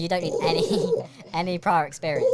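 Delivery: giggling through the words; trying not to laugh. Real, not acted. Laughing at ASMR noise.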